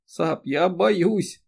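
high, very slow tearful cry; a drawn-out, crying plea; frightened sob. A narrator's reading. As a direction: wail out your fear. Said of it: "Эри заплакала ещё горше".

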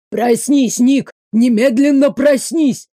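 panicked loud shout; terrified. Acted. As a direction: yell him awake in horror. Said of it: "В его голосе звучал такой ужас".

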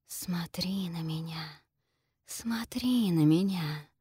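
slow, breathy seductive whisper, luring. Acted. Gorgon luring the heroine to look, seductive slow whisper. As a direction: hiss it softly to draw her gaze in. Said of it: "обольстительное шипение Горгоны".

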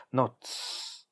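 whispered shh, finger to lips; shush. Acted. Dasha silencing herself mid-rant, whispered shush. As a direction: hush yourself with a sharp whisper. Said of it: "приложила она палец к своим губам".

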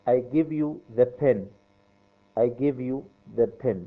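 slow, carefully spaced words; slow model sentence. Shown as a demonstration. Teacher modelling the sentence for students, slow and clear. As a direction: lay each word out for learners. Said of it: "teacher models English for class".

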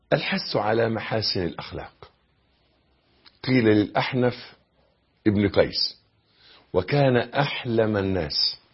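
hushed, deliberate storytelling from the pulpit; solemn sermon narration. Real, not acted. Solemnly recites a wisdom anecdote.

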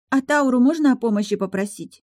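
put-on high hopeful child's question; little girl. A narrator's reading. Daughter asks. (высокий детский голос с надеждой)

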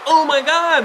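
mock-amazed high exclamation; Terry Crews. Host mimicking a talent show presenter reacting, mock amazement. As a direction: imitate a host gushing high in astonishment. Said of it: "Terry Crews is like".

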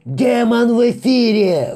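very high, loud, slow wail of fear; terrified howl. Acted. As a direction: howl in pure terror. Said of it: "в ужасе взвыл кто-то".

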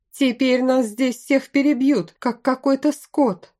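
high-pitched, agitated protest; angry outburst. A narrator's reading. Bandit fearing they will be slaughtered, angrily protesting. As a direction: raise the pitch in heated alarm. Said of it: "разозлился ещё один мужчина".

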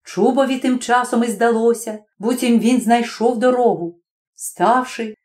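plain reading voice

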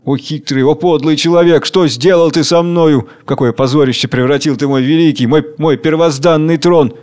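grim, heavy confession; bitter strength, declaimed with weight; sullen, forceful. Acted. King admits to workers he is a lackey, sullen. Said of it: "говорит угрюмо и сильно".

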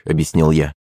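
ordinary delivery, nothing marked

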